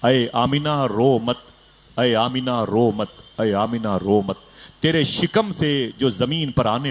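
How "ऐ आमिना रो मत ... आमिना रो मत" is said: slow, solemn voice from above; slow and solemn like a voice from heaven; slow solemn consolation to Amina; divine voice. Acted. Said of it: "अल्लाह की बारगाह से आवाज़ आई".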